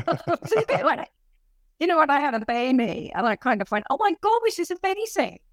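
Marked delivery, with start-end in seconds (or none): 3.9-5.4 high-pitched retold amazement; amazed realisation. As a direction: act out a delighted revelation, pitched up. Acting out her amazed realisation.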